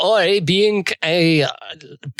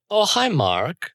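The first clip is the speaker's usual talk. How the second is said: quoted movie line; 3 semitones higher than usual. Acted. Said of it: "I've been waiting to do that line".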